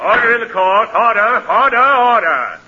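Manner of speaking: insistent courtroom call; calling for order. Acted. Judge calls rowdy court to order.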